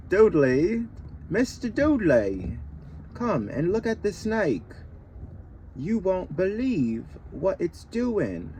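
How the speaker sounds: high, loud calling out to Dad; breathless kid yelling for his father; excited shout. Acted. Dudley calling his father to the snake in a high, loud shout.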